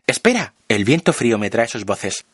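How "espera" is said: high call to wait. A narrator's reading. Support group members call out to the narrator, high call. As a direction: call to him from across the roof. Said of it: "Y me dicen".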